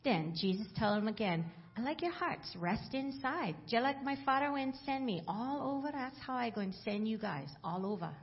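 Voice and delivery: Bible read aloud in Hawaiian Pidgin. Acted. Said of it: "from the Hawaiian Pidgin Bible".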